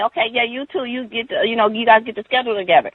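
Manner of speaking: high, hurried scolding voice; imitated yelling. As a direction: mimic a bossy coworker ordering people around. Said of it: "the lady is yelling and screaming at me".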